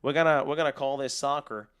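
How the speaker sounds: put-on quoted line in a rough American accent; mock American accent. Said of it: "please do more of an American accent".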